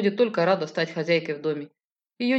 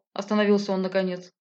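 plain reading voice

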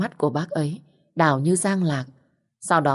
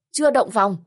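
eager surprise; 6 semitones higher than usual. A narrator's reading. Aunt seizes on the niece's confession, surprised and eager. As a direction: pounce on the news with eager disbelief. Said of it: "Bác Xuân vồn vã hỏi tôi".

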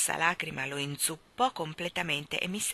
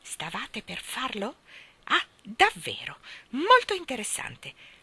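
low fierce voice; 2 semitones higher than usual. Acted. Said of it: "con voce bassa, feroce e terrificante".

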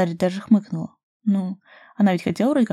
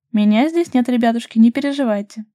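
higher, louder, sweetly teasing lilt; innocent singsong; 4 semitones higher, 6 dB louder than usual. A narrator's reading. Mila teasing the couple from her lounger, innocent singsong. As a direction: sing it out all innocence, teasing them. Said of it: "невинно пропела Милка".

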